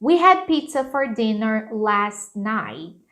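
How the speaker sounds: slow sentence, "last night" with Ts only lightly marked; held final T. Shown as a demonstration. Teacher modelling for students, "last night" with held T. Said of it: "Dá só uma marcadinha".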